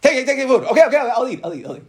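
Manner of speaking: lightly voiced host urging food, then guest giving in; pushy host and guest. Host at the Kiddush pressing a guest to eat, playful nagging. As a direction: mimic the insistent offer, then cave with a laugh.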